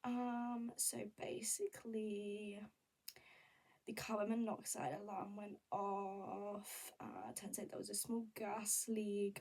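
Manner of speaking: slow, half-whispered careful explanation; weird overly careful explaining. Retold or imitated. Vlogger retelling her awkward explanation, slow and hushed. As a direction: explain it slowly like you're overthinking every word. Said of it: "I was speaking ... a little bit weird".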